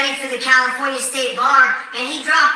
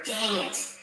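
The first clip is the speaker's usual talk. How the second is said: 1 muttered curse; 4 semitones lower, 13 dB quieter than usual. Real, not acted. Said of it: "Oh, there's a, the first curse word".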